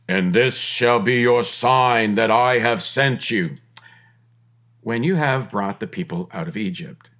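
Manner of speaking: lightly voiced booming God, a hint of Heston; Charlton Heston. Preacher voicing God to Moses, mock Heston voice. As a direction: put on a grand movie-God voice, half in jest. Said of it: "in my best Charlton Heston voice".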